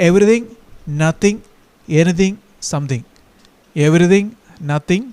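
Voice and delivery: "anything, something" drawn out slowly, word by word; slow listing. Shown as a demonstration. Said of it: "ഈ വാക്കുകൾക്കെല്ലാം കൂടെ നമ്മൾ it ചേർക്കണം". ("anything, something" പതുക്കെ ഓരോ വാക്കായി)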